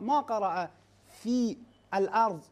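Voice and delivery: "في الأرض" with the hamza sounded; wrong demo of "في الأرض"; wrong reading. Shown as a demonstration. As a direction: sound the glottal stop in "الأرض". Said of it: "هذا خطأ".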